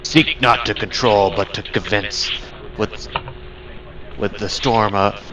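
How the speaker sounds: lightly voiced booming spirit; a hint of a grand storm god proclaiming. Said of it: "You hear a booming voice".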